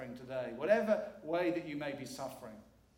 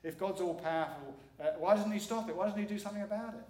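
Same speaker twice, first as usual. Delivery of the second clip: quicker and higher, a mock sceptic's objection; doubting listener; 3 semitones higher, 4 dB louder than usual. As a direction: voice the challenging listener, building up. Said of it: "you might be saying".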